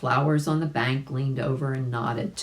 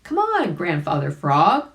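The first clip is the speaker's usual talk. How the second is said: calling out; 3 semitones higher, 4 dB louder than usual. Acted. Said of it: "cried Billy Mink".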